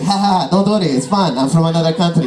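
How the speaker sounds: lightly voiced giggly immigrant; immigrant giggle. Dad giggles after saying something wrong, lightly imitated immigrant giggle. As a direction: brush it off with a mock giggle. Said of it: "You know that immigrant giggle?".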